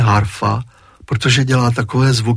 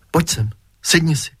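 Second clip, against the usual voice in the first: frightened voice; 4 semitones higher than usual. Acted. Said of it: "takovým vystrašeným hlasem".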